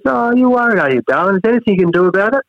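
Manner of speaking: a hint of a doting old nan calling him darling; nana's voice. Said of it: "And she goes".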